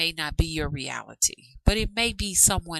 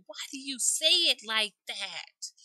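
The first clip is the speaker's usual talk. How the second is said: higher-pitched imitated question; quoting a questioner; 7 semitones higher, 4 dB quieter than usual. Vlogger quoting a young lady questioning her accent, lightly imitating. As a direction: lightly put on another woman's voice. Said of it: "Talking to the young lady who said".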